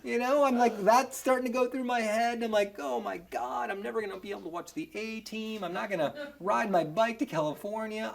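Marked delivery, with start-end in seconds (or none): 2.8-8.1 hushed inner panic, much softer; quiet dread. Retold or imitated. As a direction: fret to yourself under your breath. Panicked inner thoughts in custody.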